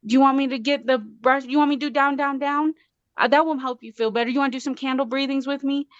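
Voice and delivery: put-on high, quick little-girl voice coaxing mommy; high childlike coaxing, sped up; imitating her daughter. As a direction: voice the five-year-old gently offering to help mom calm down.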